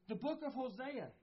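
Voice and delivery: earnest preaching to the congregation; sermon delivery. Real, not acted. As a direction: preach it with conviction.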